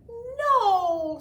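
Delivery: loud, high refusal; firm no. A narrator's reading. Matt refusing his little sister, loud and firm. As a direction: cut her off sharply. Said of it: "said Matt".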